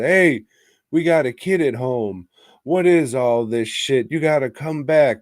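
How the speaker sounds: a hint of a country bumpkin; hayseed husband. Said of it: "he says it like a fucking hayseed".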